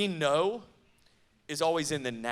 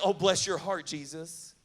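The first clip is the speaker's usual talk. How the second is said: Southern condescension. Retold or imitated. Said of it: "That's a Southern thing".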